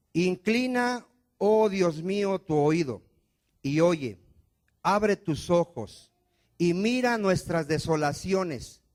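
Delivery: loud, slow, imploring plea to God; loud earnest prayer over music; fervent pleading prayer. Acted. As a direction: cry out the prayer, begging. Preacher voices Daniel's prayer.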